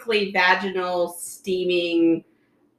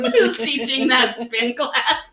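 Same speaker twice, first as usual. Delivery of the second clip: laughing; 4 semitones higher, slower than usual. Real, not acted. Laughing retelling a show.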